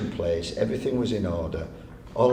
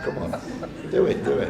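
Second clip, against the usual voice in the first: getting mad; 7 semitones higher than usual. Retold or imitated. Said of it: "I'm getting a bit mad now".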